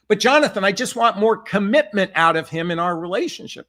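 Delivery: imitating a client's frantic plea; mock pleading yell. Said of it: "She kept screaming it".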